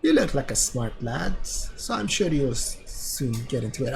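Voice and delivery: lightly attempted Welsh accent, reading game lines; a hint of Welsh lilt for the old wizard; amateur Welsh accent read aloud. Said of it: "Welsh? I think it is Welsh".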